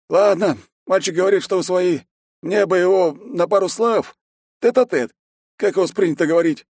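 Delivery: high, loud headman pressing his request; insistent village elder. A narrator's reading. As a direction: demand a word in private. Voit asks to talk alone.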